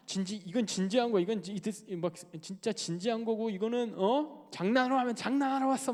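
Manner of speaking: mock scary instructor, pitch rising; 이근대이. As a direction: berate a trainee sternly. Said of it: "이근대이가 막 진짜 무섭게". (무섭게 다그치는 교관 흉내)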